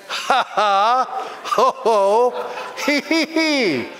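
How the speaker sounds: ha ha hee hee, half chanted; medicinal laughter. Shown as a demonstration. Preacher demonstrating a merry heart. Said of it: "A merry heart does good like a medicine".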